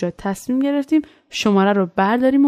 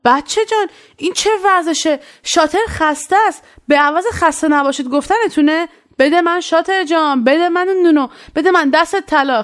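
mock shout; 5 semitones higher than usual. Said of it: "یهو یکی از پشت داد زد".

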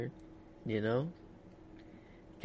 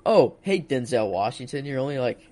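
starstruck barista act. Pretend. Pretends to serve Denzel Washington.

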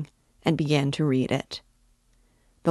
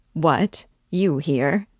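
a bright, startled "What? You here?"; surprised; 3 dB louder, much slower than usual. Acted. Zamyatov spots Raskolnikov in the restaurant, surprised. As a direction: catch him off guard with it. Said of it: "he began in surprise".

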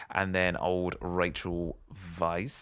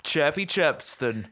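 higher, louder, slow sing-song bird name; mock bird voice; 7 semitones higher, 4 dB louder than usual. Host naming the bird that turns up, playful. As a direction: announce it like a cheeky bird.

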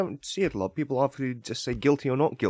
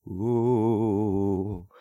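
ghost voice; much slower than usual. Acted. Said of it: "I'm the ghost".

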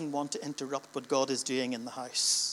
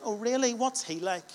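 curious surprise; 6 semitones higher than usual. Acted. Churchgoer asks in dialogue.

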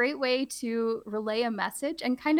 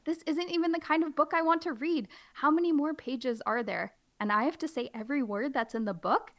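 higher, hammed-up protest; mock dismay; 5 semitones higher than usual. Teacher protesting the book to kids, mock dismay. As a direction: play the reluctant reader. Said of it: "I'm really trying to play it up".

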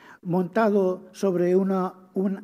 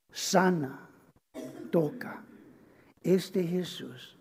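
hushed; 5 dB quieter, slower than usual. Real, not acted. Tender hushed praise of Jesus.

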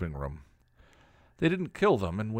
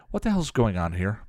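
demanding; 2 semitones higher than usual. Acted. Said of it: "Buffy demanded".

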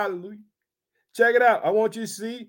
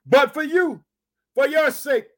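higher, louder emphatic quote; Jesus speaking emphatically; 5 semitones higher, 4 dB louder than usual. Retold or imitated. Preacher voicing Jesus's answer to the listeners, emphatic. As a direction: raise the voice and press each phrase home. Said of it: "This is what Jesus is gonna say".

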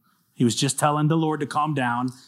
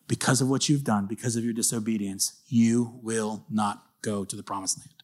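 grave judgment; 4 semitones lower, 6 dB quieter than usual. Retold or imitated. God to Moses, quiet grave judgment. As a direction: deliver it like a sentence, hushed.

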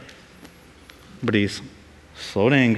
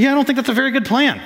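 mock reluctance; 9 semitones higher, faster than usual. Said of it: "He said".

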